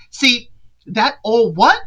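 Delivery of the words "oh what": mock sassy challenge. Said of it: "That's the real Tia coming out".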